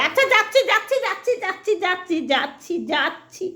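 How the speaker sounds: high, loud sing-song pet voice; voicing the dog. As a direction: answer as the dog, resigned.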